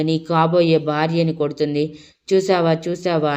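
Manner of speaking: a bitter, indignant accusation; resentful outburst. Acted. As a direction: spit it out in stung frustration. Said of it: "ఉక్రోషంగా".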